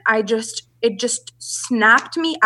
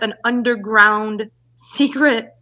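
laughing; much slower than usual. Real, not acted. Laughing over her secret brand.

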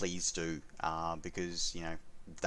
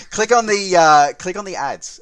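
loud urging; 12 semitones higher, 21 dB louder than usual. Real, not acted. Urging listeners to click ads.

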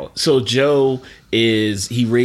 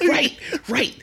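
laughing; 14 semitones higher than usual. Real, not acted. Laughing fit.

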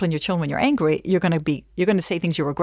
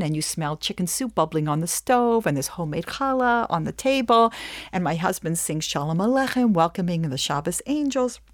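usual speaking voice

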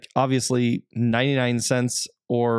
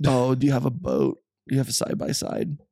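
lightly voiced dudebro; a hint of a party bro; frat bro. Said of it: "that's literally the Inland Empire".

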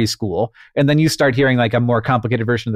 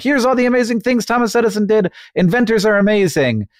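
mock school enthusiasm; 9 semitones higher than usual. Parodying school lessons on Edison.

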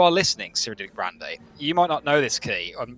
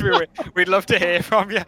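playful announcer; 7 semitones higher, 5 dB louder than usual. Pretend. Mock announcer sign-off.

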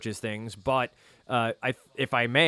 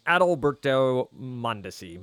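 name said in a New Jersey accent; Jersey accent on the player's name. Real, not acted. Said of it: "my nice Jersey accent coming through there".

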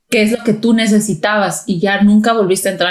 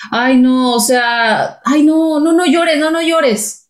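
put-on higher, exasperated "no llores" to a child; dismissive scolding; 4 semitones higher, slower than usual. Parent impatiently brushing off a crying child, dismissive.

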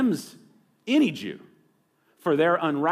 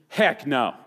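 Texan "heck no"; 2 semitones higher, 3 dB louder than usual. Pretend. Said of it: "We would translate it in Texan".

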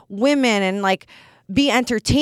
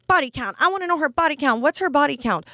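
quick, higher-pitched mock demanding voice; mimicked internet commenters; 5 semitones higher, faster than usual. Podcaster mimicking the internet asking about body count, mock-nosy.

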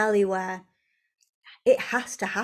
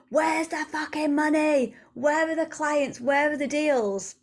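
higher-pitched mock whine; impatient demand; 5 semitones higher than usual. Woman repeating old thoughts for years about money, frustrated demand. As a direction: nag for what is missing.

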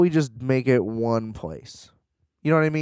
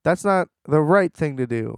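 higher, whiny innocent protest; mock naive hero; 5 semitones higher than usual. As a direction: reviewer mocks the hero pleading with captors, a high whiny protest. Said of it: "And then he's like".

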